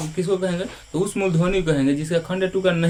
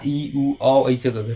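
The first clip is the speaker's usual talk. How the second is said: very slow, each vowel drawn out; slow long vowels; 4 semitones lower, much slower than usual. Shown as a demonstration. Teacher to class, slowly drawing out the long vowels. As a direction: stretch every vowel slowly. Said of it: "दीर्घ मतलब जैसे आ".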